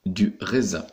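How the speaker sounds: "raisin" with the S voiced as Z. Shown as a demonstration. Teacher demonstrating the rule, "raisin" with voiced Z. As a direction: sound out "raisin" with a clear Z. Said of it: "la lettre S se dit ze".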